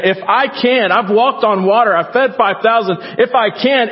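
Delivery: fiery preacher speaking as Jesus; impassioned preaching. Acted. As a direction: preach it at full force as Jesus.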